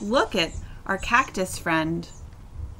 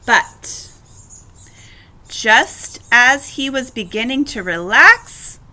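measured, emphatic storybook narration; story read-aloud; 6 dB louder than usual. A narrator's reading. Teacher reading a cactus story to children, storybook narration. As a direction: read it clearly to young listeners.

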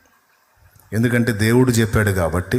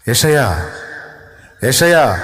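calling out; 5 dB louder, slower than usual. Acted. God calls out to the prophet.

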